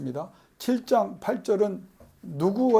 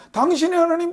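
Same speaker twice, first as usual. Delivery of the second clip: mocking your God; 10 semitones higher, 3 dB louder than usual. People's refrain, mocked.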